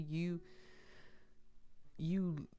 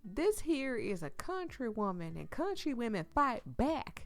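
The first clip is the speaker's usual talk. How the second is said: higher, lightly put-on proud declaration; quoted country woman; 6 semitones higher than usual. Player quoting a saying about country women, lightly acted.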